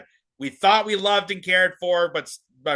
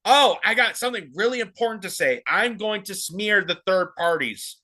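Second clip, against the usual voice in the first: mocking her tone; 3 semitones higher than usual. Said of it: "even just the tone of her voice".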